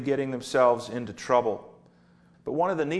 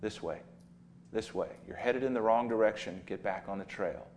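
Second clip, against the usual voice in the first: softer, gently steering a wandering sheep; gentle shepherd nudge; 3 semitones lower, 4 dB quieter than usual. Retold or imitated. Shepherd gently calling a straying sheep back, softly. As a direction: coax it back onto the path, tender and low-key. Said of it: "tap the side of the sheep very gently and say".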